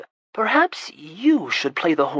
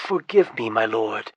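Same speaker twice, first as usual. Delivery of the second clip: apologetic; 4 semitones lower than usual. Acted. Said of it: "in an apologetic tone".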